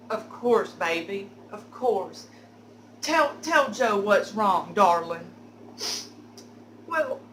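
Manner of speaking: put-on drawling sweet-talking drunk; coaxing Joe voice.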